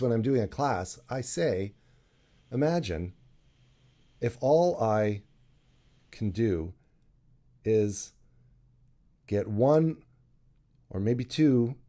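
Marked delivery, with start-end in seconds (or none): 2.5-11.7 slow, one word per breath; short of breath. Shown as a demonstration. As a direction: gasp out a word or two at a time. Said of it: "automatically sounds like I'm short of breath".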